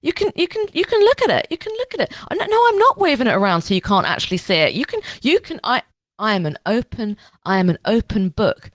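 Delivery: high, eager mock innocence; mock innocent. Pretending to hand over his tablet, in high mock innocence.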